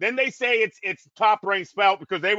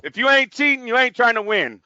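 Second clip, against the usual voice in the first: quoting Al Davis; 6 dB louder than usual. Retold or imitated. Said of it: "What did Al Davis used to say?".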